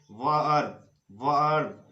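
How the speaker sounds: वर्ब with an "uh" sound before rb; open schwa vowel. Shown as a demonstration. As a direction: model वर्ब slowly as "vurb". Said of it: "तो ई का उच्चारण अ".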